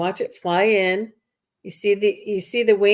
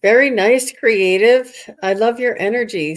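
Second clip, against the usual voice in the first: loud, bright burst of praise; excited praise; 3 semitones higher, 6 dB louder than usual. Real, not acted. Host praising the card reader, loudly excited. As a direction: gush over the reading, louder.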